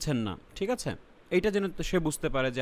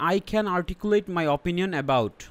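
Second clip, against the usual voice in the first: slow example reading; much slower than usual. Shown as a demonstration. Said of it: "যেমন দেখেন".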